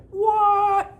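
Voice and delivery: high, loud squeak of disbelief; a shrill little what?; mock shocked what. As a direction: act outraged at the name. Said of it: "and I was like".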